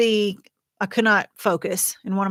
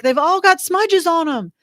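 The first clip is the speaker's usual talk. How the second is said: exasperated self-quote; 9 semitones higher, 6 dB louder than usual. Retold or imitated. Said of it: "I was like".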